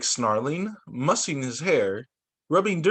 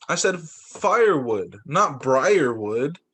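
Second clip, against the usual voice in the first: slow, heavy stress on briarwood; gruff scold; slower than usual. Acted. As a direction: scold him word by word, slowly. Varmint scolds Buddy.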